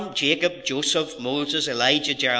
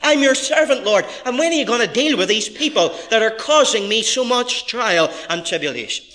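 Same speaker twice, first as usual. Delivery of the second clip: raised, insistent voice of complaint; impassioned appeal; 8 semitones higher, 5 dB louder than usual. Acted. Preacher paraphrasing the psalmist's prayer for justice, impassioned appeal. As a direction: plead loudly with the Lord, easing at the end.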